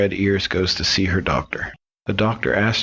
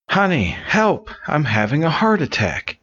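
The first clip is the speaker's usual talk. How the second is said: wife in hammed-up distress, pitched way up; mock panicked wife; 9 semitones higher than usual. Wife cries for help in joke.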